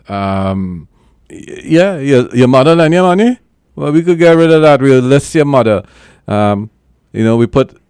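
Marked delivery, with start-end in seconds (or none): 1.3-5.8 excited. Real, not acted. Excited pitch jump about mother.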